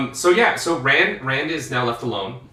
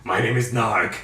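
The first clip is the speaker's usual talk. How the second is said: a hint of a raspy throat-cut voice; Narg voice; 2 semitones lower than usual. Host introduces Narg in a lightly rasped voice. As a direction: lightly croak it out as a wounded man. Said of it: "This is how I talk now after the Dragon Reborn cut my throat".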